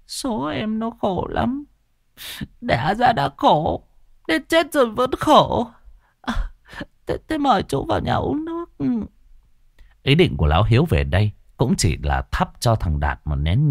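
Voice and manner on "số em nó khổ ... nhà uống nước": put-on much higher, quivering old grandma voice; tearful old woman. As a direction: wail it like a grieving grandmother. Grandmother voice continues.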